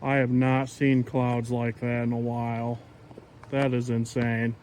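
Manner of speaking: nervous heavy breathing. Real, not acted. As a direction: breathe hard between words. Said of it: "Sorry about my heavy breathing".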